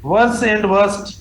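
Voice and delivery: drawn out word by word; very slow dictation. Shown as a demonstration. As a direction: spell out the option slowly. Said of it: "teacher dictating option". (बहुत धीरे-धीरे लिखवाना)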